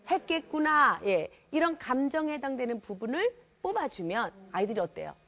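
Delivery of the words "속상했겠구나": louder drawn sympathy, said for repeating; audience echo line. Shown as a demonstration. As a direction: say it loud so they repeat. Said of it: "또 뭐라요?".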